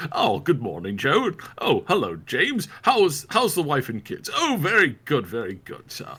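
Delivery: high, cheery mock-British neighbours; chirpy small-town greeting. Passers-by greeting each other on the street, hammed-up and cheery. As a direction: ham up polite villagers swapping hellos. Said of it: "everybody says".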